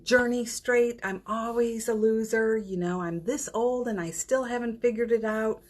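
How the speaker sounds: self-critical inner voice. Retold or imitated. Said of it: "meaning like, suffering over your suffering".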